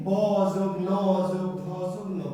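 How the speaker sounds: "ব যোগ ন যোগ ধ যোগ ন" spelled out with gaps between the letters; name each letter of "ব যোগ ন যোগ ধ যোগ ন" separately. Shown as a demonstration. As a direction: spell out "ব, ন, ধ, ন" one at a time, joined by "যোগ". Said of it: "বর্ণ চারটি। কি কি?".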